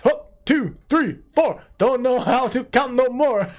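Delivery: high, dopey little goblin voice. Acted. Reading the card's flavor text to viewers as a silly goblin. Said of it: "put that in your goblin voice".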